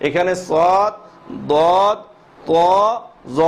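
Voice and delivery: সদ, দদ, ত, জ with lips slightly rounded. Shown as a demonstration. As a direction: round the mouth as you say each. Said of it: "এই সময় ঠোঁটটা কি হবে".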